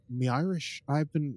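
light, unsure Irish accent; attempted Irish accent. Shown as a demonstration. Host practising for cohost, tentative Irish accent. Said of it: "it's not great".

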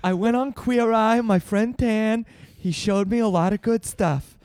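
lightly put-on voice, laughing through it; a hint of a president firing his wife; Trump impression. Podcast host as Trump firing Melania, barely voiced. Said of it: "it's me, Donald".

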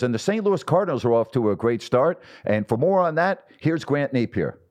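hammed-up anchor handing off to a reporter; a hint of a big-voiced SportsCenter anchor; Chris Berman. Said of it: "Chris Berman goes".

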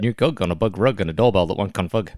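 put-on New Zealand accent; exaggerated New Zealand vowels, played for laughs; Kiwi accent. Shown as a demonstration. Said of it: "funny to say in a Kiwi accent".

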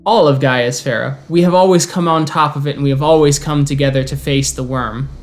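measured, ceremonial speech to the guests; formal elder's address. Acted. Star Soother welcomes the Garou guests, ceremonial and measured. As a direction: speak like a proud elder welcoming kin.

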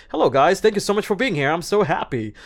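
high, loud, overly eager voice; trying too hard. Shown as a demonstration. Actor mocks a forced, overeager greeting, high and loud. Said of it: "if you try so hard, you're gonna sound".

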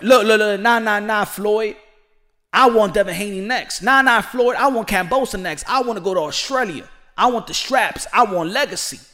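loud, brash fighter calling his shots; Gervonta demanding fights. Pretend. Gervonta telling Floyd who he wants next, loud and brash. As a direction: cut Floyd off and claim the mic, loud.

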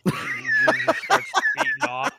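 high, loud laughing shout. Real, not acted. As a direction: burst out laughing mid-sentence. Laughing at imagined scene.

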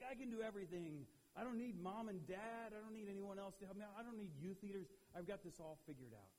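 put-on brash invincible kid, pitch up; cocky teen. Teenager bragging he needs no one, cocky. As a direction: swagger like a know-it-all teenager.

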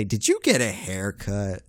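slow, drawn-out mimicry; mock-curious, stretched-out question. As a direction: imitate a nosy coworker lightly. Mimics coworkers' insincere question.

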